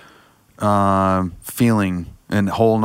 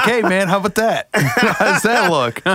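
goofy voice; 10 semitones higher than usual. Retold or imitated. Mocking himself showing off belt.

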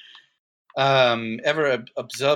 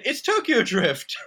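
laughing quote; 8 semitones higher, slower than usual. Retold or imitated. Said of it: "I literally said".

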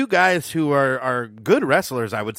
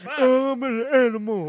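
high, slow wild-man promo; wrestling promo; 10 semitones higher, 3 dB louder, slower than usual. Retold or imitated. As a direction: bellow it like a crazed brute. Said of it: "Animal's like".

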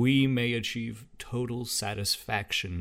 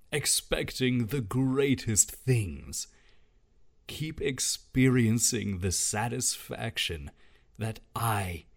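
devotional reading. Acted. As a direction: read it like a prayer. Reads God's words devotionally.

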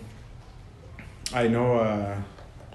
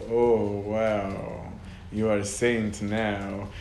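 sarcastic; much slower than usual. Retold or imitated. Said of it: "like, sarcastic".

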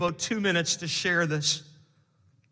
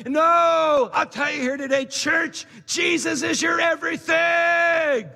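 full-force preaching; 6 semitones higher than usual. Acted. Pastor preaching to his church at full force. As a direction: drive it home from the pulpit.

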